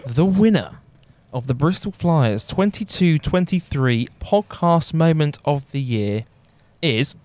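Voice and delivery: slow, suspenseful winner announcement; awards presenter. Acted. Host reveals the podcast award winner, awards presenter. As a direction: hold them waiting for the name.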